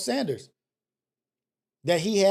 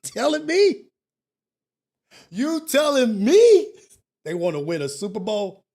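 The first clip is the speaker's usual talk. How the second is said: incredulous mockery; 5 dB louder than usual. Real, not acted. Mocking Browns fans' dreams, loud drawn-out disbelief. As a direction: stretch it out like you can't believe it.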